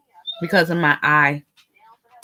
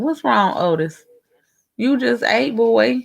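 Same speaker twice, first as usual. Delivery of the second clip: higher fond pet voice; pet talk; 5 semitones higher, slower than usual. Real, not acted. Talking to her pet.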